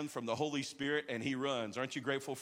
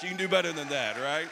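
rousing call; 7 dB louder than usual. Real, not acted. Urging crowd to cheer louder.

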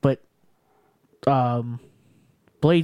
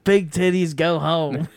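higher-pitched imitation of a mic yell; mock scream; 3 semitones higher, slower than usual. Fighter who grabbed the mic taunts opponent, mock scream. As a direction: retell the shouted taunt with relish. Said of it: "he screamed it in the microphone".

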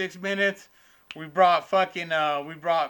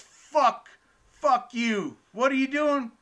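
mock angry old man; 8 semitones higher, slower than usual. Old man in wheelchair cursing out the comic, mock angry. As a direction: bark it like a cranky old man kicked off the pool table.

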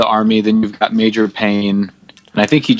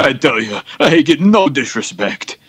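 lightly voiced old borscht belt comic; Rodney Dangerfield. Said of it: "this is a content Rodney Dangerfield".

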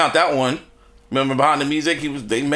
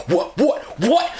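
mock Tasha shrieking; 8 semitones higher, slower than usual. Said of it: "Tasha in there going".

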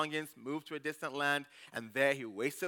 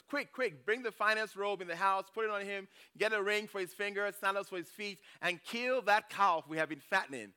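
higher, eager orders to servants; eager father; 4 semitones higher than usual. Acted. Father urging servants to prepare a feast, eager and higher. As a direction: rush them with joy.

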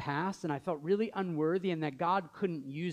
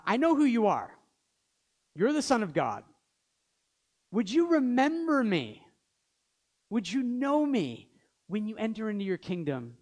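high, loud desperate plea; pleading thief; 5 semitones higher, 5 dB louder than usual. Retold or imitated. Thief on the cross begging Jesus, high and loud. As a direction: cry out to Jesus, begging to be remembered.

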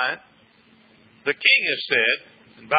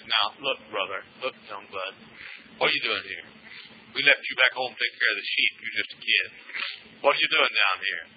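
low, much softer, dismissive big-brother voice; scornful older brother; 8 semitones lower, 7 dB quieter than usual. Acted. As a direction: talk down to a kid, hushed and scornful. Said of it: "David's oldest brother came and said".

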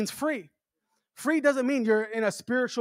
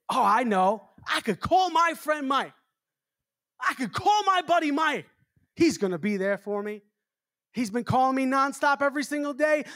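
lightly raised, eager voice of a pastor in need; eager relief; 4 semitones higher than usual. Retold or imitated. Stranded pastor thinking of his friend, mildly excited. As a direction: play the friend who just remembered his buddy.

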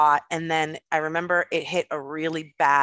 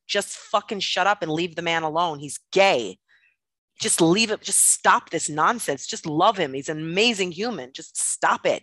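father losing it. Retold or imitated. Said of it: "My father lost it and was like".

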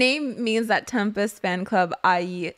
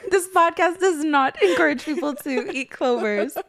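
giggling mock announcement; laughing disclaimer; 5 semitones higher, 4 dB louder than usual. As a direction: laugh through a fake official notice.

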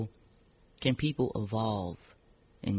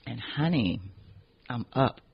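perked up; 2 semitones higher than usual. Real, not acted. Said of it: "I drank my coffee black".

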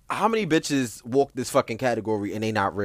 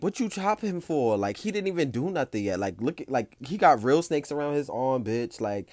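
indignant crowd; 2 semitones higher than usual. Retold or imitated. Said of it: "The whole crowd behind me is like".

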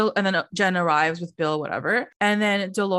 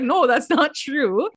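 slow, higher imitated denial; mock protest; 5 semitones higher, slower than usual. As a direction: drag out a squabbling denial. Acted back-and-forth quarrel.

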